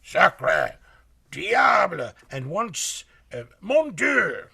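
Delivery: hammed-up French cursing; mock gruff Frenchman. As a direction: bark the curses like an angry Frenchman. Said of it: "The gruff voice said repeatedly".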